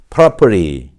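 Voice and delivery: American "property" as "prah-per-ee", T flapped; American model word "property"; American pronunciation. Shown as a demonstration. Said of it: "미국식으로 발음하면 어떻게 될까요?".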